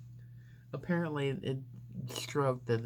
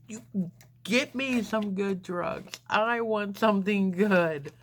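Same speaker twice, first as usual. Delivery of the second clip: high, pushy demand, louder at the end; demanding patient; 8 semitones higher, 5 dB louder than usual. Retold or imitated. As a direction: insist on the good drugs, getting louder. Patient demanding better drugs.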